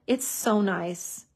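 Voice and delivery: slow, savoring "It's so nice"; drawn-out admiring. Real, not acted. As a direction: linger lovingly on each word. Crafter admires dried glue.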